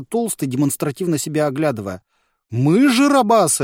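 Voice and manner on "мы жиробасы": exclaiming. A narrator's reading. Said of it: "воскликнул Вислый".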